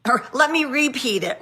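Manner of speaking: playing the friend who keeps repeating herself; exasperated repeat.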